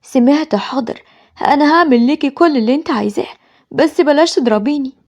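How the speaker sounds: submit with a touch of fear; fearful. Acted. Boy begging his mother not to hit him, fearful. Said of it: "أحمد بخوف".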